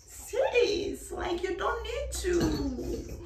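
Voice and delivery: mock sassy aside. High, slow English aside.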